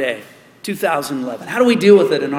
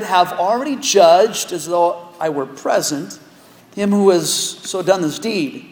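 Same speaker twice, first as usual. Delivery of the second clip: measured reading of the passage; solemn Bible reading; scripture reading. Acted. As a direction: read the verses with weight.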